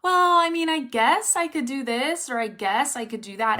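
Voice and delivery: waver as if you can't commit to a goal; unsure, noncommittal. Acted. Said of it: "you have to be very clear. It can't be like".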